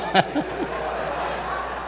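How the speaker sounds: long wheezy laugh; real laugh, mostly breath; laughter. Real, not acted. Storyteller delighted by the donations, laughing.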